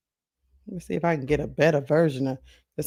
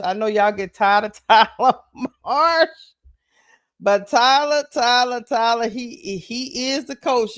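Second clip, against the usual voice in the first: exasperated high outcry; 5 semitones higher, 4 dB louder than usual. Real, not acted. To viewers, fed up with the coach: high exasperated cry. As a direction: pitch jumps up, louder, calling his name in exasperation.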